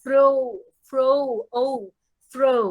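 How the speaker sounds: "ফ্রো" with a short pure o, not a diphthong; "ফ্রো" clipped, one clean o vowel. Shown as a demonstration. Teacher repeating the vowel in "fro" for students. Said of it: "আর ফ্রো হবে না".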